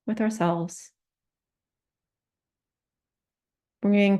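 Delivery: calm meditation guidance with long pauses; unhurried meditation teacher, pausing often; guided meditation. Real, not acted. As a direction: lead a compassion practice, leaving silence between phrases. Leads a guided compassion meditation.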